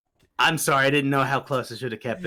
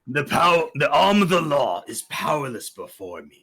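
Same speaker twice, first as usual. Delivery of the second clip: Imperfect Cell; 2 semitones higher than usual. Acted. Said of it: "That also sounds like Imperfect Cell".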